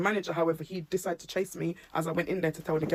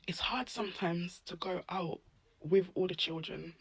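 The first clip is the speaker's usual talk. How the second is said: tearing up; 4 dB quieter than usual. Real, not acted. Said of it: "I just keep tearing up".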